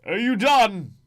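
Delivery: loud, high, impatient bark; blunt barbarian. Acted. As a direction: cut the old man off, fed up. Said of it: "you might hear the barbarian go".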